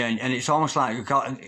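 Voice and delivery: usual speaking voice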